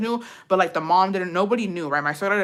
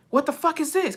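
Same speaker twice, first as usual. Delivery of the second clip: imitating a higher-pitched, incredulous demand; retold incredulous question; 8 semitones higher than usual. Partner finds the mess in the restroom, mock incredulous. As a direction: voice his disbelief, pitched up.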